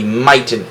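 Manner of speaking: "miten" said with a long I, MY-ten; wrong long-I reading. Shown as a demonstration. Teacher showing students the wrong long-I reading "miten". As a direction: read "miten" like the word starts with "my". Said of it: "would make our I a long sound".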